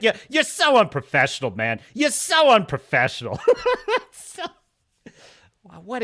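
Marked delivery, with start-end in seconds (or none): 0.0-3.4 mock furious scolding, louder and higher; imitated on-set meltdown, laughing at the end; Christian Bale rant. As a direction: berate a crew member. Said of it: "the Christian Bale rant".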